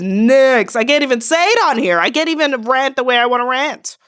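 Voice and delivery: loud, driving hype for the viewer; fired-up loud reading. Real, not acted. Reader hyping up her viewers, loud and fired-up. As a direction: push it out strong and fast, cheering them on.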